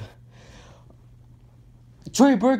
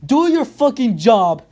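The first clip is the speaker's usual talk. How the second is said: angry outburst; slower than usual. Real, not acted. Angry rant at the coach.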